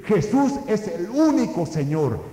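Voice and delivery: early Christians crying out their faith, loud; proclaiming loudly. Retold or imitated. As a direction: shout out "el único" as a confession. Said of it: "vociferan y dicen".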